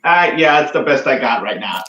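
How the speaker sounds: tinny, thin voice through a poor mic; like talking through a tin can; tin can phone. Real, not acted. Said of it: "It kinda sounds like you're talking through a tin can".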